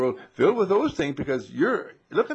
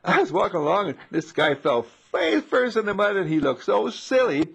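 telling wife; 7 semitones higher, 4 dB louder than usual. Retold or imitated. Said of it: "tell my wife and say".

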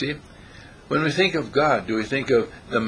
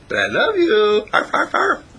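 voicing the dog; 9 semitones higher, 4 dB louder than usual. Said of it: "And he says".

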